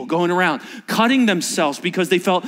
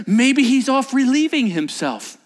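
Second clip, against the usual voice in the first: mocking jab; 7 semitones higher than usual. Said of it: "he literally says".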